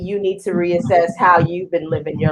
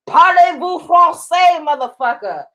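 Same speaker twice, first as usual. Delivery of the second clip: showy French; 9 semitones higher, 4 dB louder than usual. Acted. Shows off speaking French.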